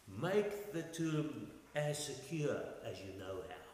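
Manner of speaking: slow, measured sarcasm; sarcastic. Retold or imitated. Pilate to those asking for a tomb guard, sarcastic. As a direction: lay on dry sarcasm, taking your time. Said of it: "Do you hear the sarcasm there?".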